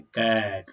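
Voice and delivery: "कैट" said as English cat, clear short vowel and crisp final t; cat pronunciation. Shown as a demonstration. Teacher modelling "कैट" as English cat for students. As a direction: model "कैट" for the class, English k-a-t in one clean syllable. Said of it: "अब इसको हम कैसे पढ़ते हैं?".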